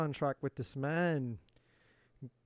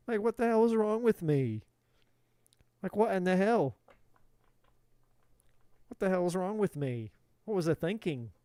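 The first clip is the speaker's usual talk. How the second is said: acted exasperated realization; 3 semitones higher than usual. Voices the man's sudden realization.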